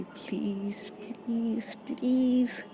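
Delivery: whiny lovers' plea building upward; begging. Acted. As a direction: coax and beg, rising with every please. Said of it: "कायरा ऐसे कर रही रहती है".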